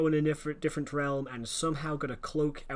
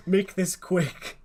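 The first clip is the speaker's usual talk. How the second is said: hurried boss, acted; 5 semitones higher, 6 dB louder, much slower than usual. Acting rushed writers' panic.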